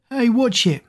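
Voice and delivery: high-pitched indignant call; mild yell. A narrator's reading. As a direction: call out a sharp warning. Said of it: "Maddie yelled".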